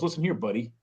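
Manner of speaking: a mild warning tone on "buddy"; a touch of threat in "Listen here, buddy"; threatening. Retold or imitated. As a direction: warn them, a hint of menace. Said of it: "But if someone goes".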